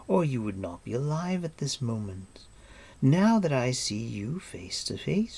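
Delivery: measured, lilting regal reply; lightly voiced cool queen; smooth queen. Queen sizing up her captive, smooth and composed.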